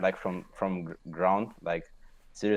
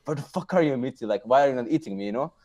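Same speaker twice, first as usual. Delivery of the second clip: higher, faster frustrated demand; hammed-up teammate rage; mock angry call; 5 semitones higher than usual. Retold yelling at jungler.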